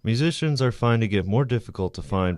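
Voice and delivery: projected reporter read with crisp phrasing; measured TV news package voice-over. Real, not acted. Student reporter tells viewers about a demolished music bar, news report.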